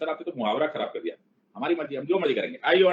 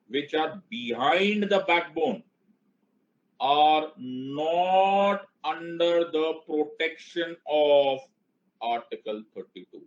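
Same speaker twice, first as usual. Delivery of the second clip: slow emphatic explaining; much slower than usual. Shown as a demonstration. Teacher stressing the key point.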